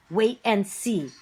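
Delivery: slow, lightly hissed witch warning; a hint of a menacing witch, slow; hissed witch line. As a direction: draw it out like a sly witch. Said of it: "hissed the witch".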